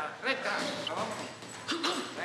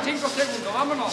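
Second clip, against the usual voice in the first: louder, pushing through the last seconds; urgent coaching shout; 4 dB louder than usual. Real, not acted. Coach to boxer with seconds left, urgent shout. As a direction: call out the countdown with force.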